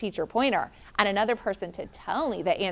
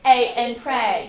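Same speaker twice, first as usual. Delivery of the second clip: drawn out, loud and clear; slow, loud modeling; 6 dB louder, slower than usual. Shown as a demonstration. Teacher models the AY sound for a student, slow and loud. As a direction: model it slowly for the kids. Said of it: "teacher models sound slowly".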